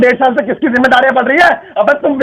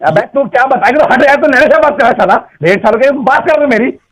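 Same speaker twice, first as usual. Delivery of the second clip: angry. Real, not acted. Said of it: "इतना गुस्सा क्यों कर रहे हो".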